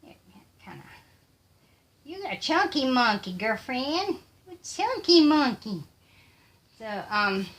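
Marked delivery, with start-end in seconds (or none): 2.0-5.8 higher, teasing coo; playful baby talk. Pretend. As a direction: coo at a little one in a silly high voice. Cooing playfully to a pet or little one.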